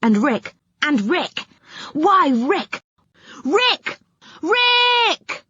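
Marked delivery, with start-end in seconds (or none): 1.9-5.5 rising, ever higher cries of the name; mock-astonished calls, much higher; surprised calling. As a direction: call out as if he has vanished.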